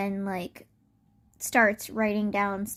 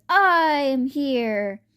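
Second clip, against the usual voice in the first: drawn-out, higher heroic call; hero announcing arrival; 4 semitones higher, 4 dB louder than usual. Retold or imitated. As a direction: make a mild heroic entrance. Hero makes his entrance.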